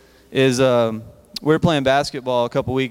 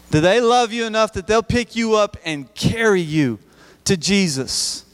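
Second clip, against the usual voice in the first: rising, impassioned preacher's call; preaching; 6 semitones higher than usual. Acted. Youth pastor to students, rising preacher's plea. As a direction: preach it up high to the youth group.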